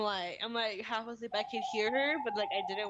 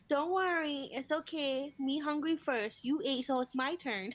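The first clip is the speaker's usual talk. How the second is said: lightly voiced, higher toddler talk; young daughter soothing; 4 semitones higher, slower than usual. Hungry daughter reassuring baby sister, lightly imitated child voice. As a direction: gently imitate a child explaining herself to a baby. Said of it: "She's like".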